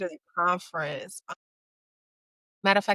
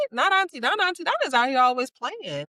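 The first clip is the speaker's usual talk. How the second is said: put-on high, louder child disbelief; kids in disbelief; 8 semitones higher, 4 dB louder than usual. Kids shocked that Auntie Donna won't play, high and disbelieving. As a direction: gasp like a shocked kid.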